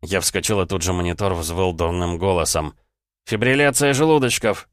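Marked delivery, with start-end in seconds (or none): 3.3-4.7 loud, high urgent shout; shouted alarm. Acted. Doctor shouting to the nurse as the patient crashes. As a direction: yell it across the room in panic. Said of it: "заорал я".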